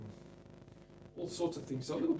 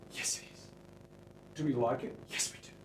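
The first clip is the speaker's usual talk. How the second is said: whisper. Pretend. Answering his own questions about the guitar, whisper. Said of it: "Why am I whispering?".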